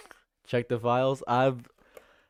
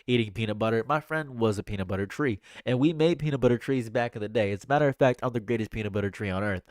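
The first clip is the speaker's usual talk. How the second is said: lightly voiced rambling tale-teller; a hint of a boastful politician's ramble; Donald Trump; 3 semitones lower than usual. Streamer mimics Trump answering any question, lightly imitated rambling boast. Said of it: "He will immediately regale you with a tale".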